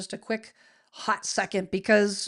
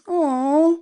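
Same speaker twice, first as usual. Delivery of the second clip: touched aw; 7 semitones higher, 9 dB louder than usual. Retold or imitated. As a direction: melt at the kids' compliment. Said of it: "I'm like".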